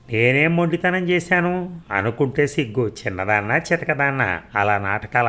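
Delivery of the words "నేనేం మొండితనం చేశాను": a sharp higher cry of disbelief; indignant protest. Acted. Wife protesting her husband's charge of stubbornness, indignant and higher. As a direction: throw the accusation back, stung.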